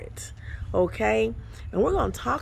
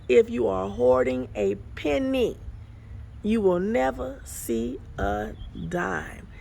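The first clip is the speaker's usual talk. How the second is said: slowed down. Shown as a demonstration. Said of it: "let me say that slow".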